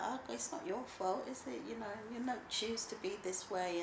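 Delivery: put-on gently console, as the children do; imitated reassurance. Voicing her children's reassurance.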